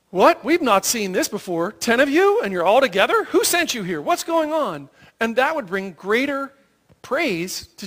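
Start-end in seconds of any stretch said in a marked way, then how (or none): 0.1-4.9 a priest caught off guard, voice jumping up; astonished priest. Retold or imitated. Priest amazed at ten healed lepers arriving, astonished.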